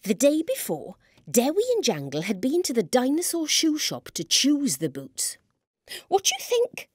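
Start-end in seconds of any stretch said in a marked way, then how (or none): 6.1-6.9 high-pitched, proud little question; pleased-with-yourself query, pitched up; proud asking. A narrator's reading. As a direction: ask it high, showing off. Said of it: "asked Jangle as he marched back and forth proudly".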